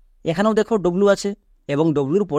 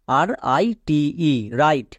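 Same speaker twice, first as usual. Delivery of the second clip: slow spelling; 2 semitones lower than usual. Shown as a demonstration. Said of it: "এখানে ডব্লুর উচ্চারণ হচ্ছেই না".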